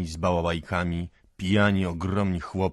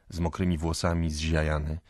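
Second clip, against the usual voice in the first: usual speaking voice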